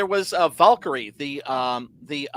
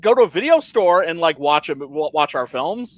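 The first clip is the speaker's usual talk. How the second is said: mock studio exec; 6 semitones higher than usual. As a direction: sneer like a greedy Hollywood suit. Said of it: "because they're like".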